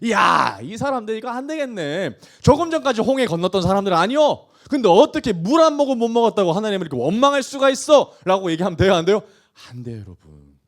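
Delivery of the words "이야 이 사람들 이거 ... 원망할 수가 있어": mildly raised, disapproving reproach; indignant scolding. Acted. Preacher as a critic judging grumbling Israelites, indignant. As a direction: scold them in mock disbelief.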